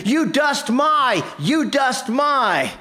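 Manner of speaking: sputtering with hammed-up fury; screaming. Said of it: "Now he's yelling, he's screaming".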